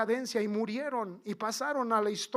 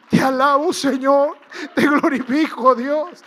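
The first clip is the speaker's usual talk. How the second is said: very loud shout of praise; praising loudly; 4 semitones higher, 12 dB louder than usual. Acted. Healed leper thanking God, shouting praise. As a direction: cry out praise to God at full voice. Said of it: "A gran voz empezó a alabar".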